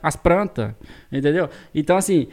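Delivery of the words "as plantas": "as plantas" said "as pranta"; caipira "plantas". Retold or imitated. Son shows how mother says "as plantas": "as pranta". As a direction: turn the l of "plantas" into a tapped r and drop the s. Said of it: "é um trem que nós fala mesmo".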